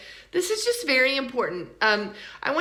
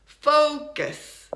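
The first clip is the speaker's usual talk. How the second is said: "Focus" as FOH-kuh's, strong start and weak ending; unstressed second syllable; 4 semitones higher, 4 dB louder than usual. Shown as a demonstration. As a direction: reduce the second vowel of "Focus" to a short uh. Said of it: "the second syllable is not stressed".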